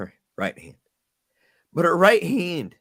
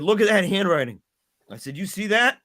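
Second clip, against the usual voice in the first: higher, insistent pressing; stern insistence; 6 semitones higher than usual. Retold or imitated. Dad pointing daughter to her own handwriting, insistent. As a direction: push her to look.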